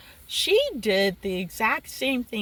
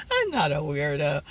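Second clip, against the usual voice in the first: dropped low after giggling; mock-serious retraction; 7 semitones lower than usual. Real, not acted. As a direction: take it back in a low voice. Takes back the joke label.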